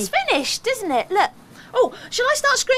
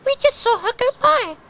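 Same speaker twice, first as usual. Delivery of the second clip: squeaking mice; 5 semitones higher, 3 dB louder than usual. Acted. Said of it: "squeaked the mice".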